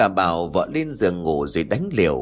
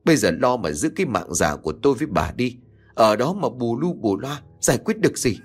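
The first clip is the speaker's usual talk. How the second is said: angry yell; 2 semitones higher, faster than usual. Acted. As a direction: roar at your nagging wife. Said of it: "quát lớn".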